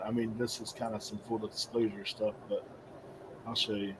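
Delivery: muffled behind a hand; hand over mouth. Real, not acted. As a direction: speak through your hand over your mouth. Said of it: "I can barely hear him".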